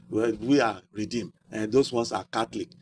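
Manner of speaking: low-pitched, sectarian put-down; dismissive church member. Acted. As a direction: set your group apart from theirs, pitched low. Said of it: "Or say, uh".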